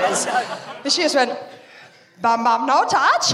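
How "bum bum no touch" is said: slow mock Spanish-accented toddler; toddler's Spanish accent. Daughter following the cat around, lightly put-on Spanish-accented toddler voice. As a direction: imitate a small child with a Spanish accent. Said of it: "she's got a Spanish accent".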